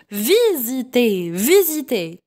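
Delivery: "visiter" in clear syllables with a buzzing Z. Shown as a demonstration. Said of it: "Ça se prononce Z".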